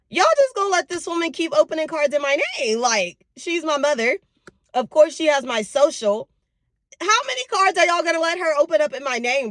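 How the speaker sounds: high-pitched, indignant retelling of a complaint; upset retort. Retold or imitated. Daughter retelling her call about cards in her name, upset. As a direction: protest in disbelief, pitched well up. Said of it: "Oh, I was upset".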